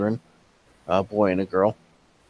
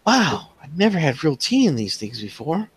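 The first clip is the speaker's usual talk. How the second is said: put-on delighted little girl; 5 semitones higher than usual. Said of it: "she's like".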